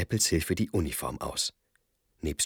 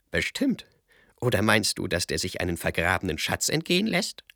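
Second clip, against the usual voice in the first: Kasperl-Stimme; 4 dB louder than usual. Acted. Kasperl spricht zu Seppel.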